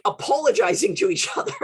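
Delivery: amused, laughing through the last words. Real, not acted. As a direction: say it loud and let the laugh take over. Tickled by own anecdote.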